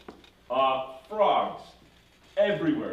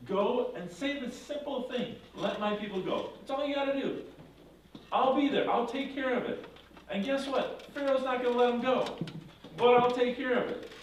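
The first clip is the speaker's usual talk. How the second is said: God speaking; 9 semitones higher than usual. Acted. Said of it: "So God says".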